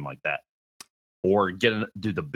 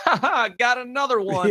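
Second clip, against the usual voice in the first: mock laughing; 5 dB louder than usual. Imitating Epic devs laughing.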